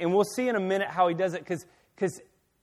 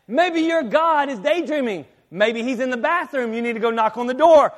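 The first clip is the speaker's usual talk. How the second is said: mocking; 4 semitones higher, 6 dB louder than usual. Elijah taunting rivals about their silent god, mocking. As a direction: needle them with mock suggestions. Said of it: "So Elijah's saying".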